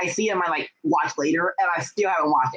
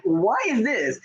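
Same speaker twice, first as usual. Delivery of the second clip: puzzled; 9 semitones higher, slower than usual. Retold or imitated. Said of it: "I was like".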